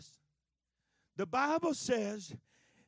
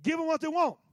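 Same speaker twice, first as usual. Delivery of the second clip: higher, louder insistence; God's firm command; 5 semitones higher, 6 dB louder than usual. Acted. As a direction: declare it firmly. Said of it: "He says".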